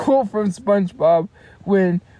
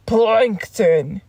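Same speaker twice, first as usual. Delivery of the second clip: Mr. Krabs impression. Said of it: "he did Mister Krabs".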